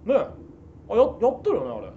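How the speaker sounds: Nomura. Shown as a demonstration. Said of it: "清原のバーターでいた野村".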